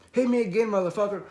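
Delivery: high, loud goading yell; heated retold taunt; shouted dare. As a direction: demand another blow, fired up. Retold taunt after a punch.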